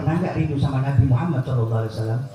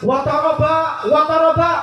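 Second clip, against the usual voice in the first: high, louder joyful exclamation; joyful cry; 10 semitones higher, 4 dB louder, slower than usual. Retold or imitated. Bilal corrects his wife, joyful high cry. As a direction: call it out with delight. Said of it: "mestinya bilang".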